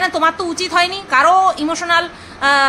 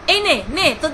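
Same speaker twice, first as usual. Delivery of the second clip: playful mimicry; 2 semitones higher than usual. Fokla offering food to open mouths, mimicked coaxing. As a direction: act out feeding someone, building in volume. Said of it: "ফোকলা তো এরকম".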